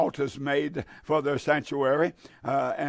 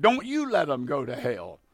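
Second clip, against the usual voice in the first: a hint of a solemn divine voice, stress on "you"; voice of God; 2 semitones lower than usual. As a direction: speak as the Lord, lightly voiced and grave. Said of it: "And he said".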